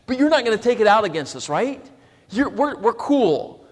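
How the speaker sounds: nervously begging their brother, slowing on cool; sheepish plea. Retold or imitated. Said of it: "His brothers come in very sheepishly".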